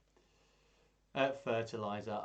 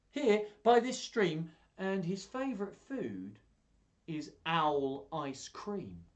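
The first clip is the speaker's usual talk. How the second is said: much higher, louder, slowing to the punchline; mouse springing a scare; 6 semitones higher, 5 dB louder, much slower than usual. Acted. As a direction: tease the owl with it. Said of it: "do all the voices".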